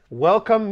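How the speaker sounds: "Welcome" 慢慢拉长拆开念; 把 "Welcome" 拖长强调; slow breakdown. Shown as a demonstration. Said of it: "I'm teaching you English".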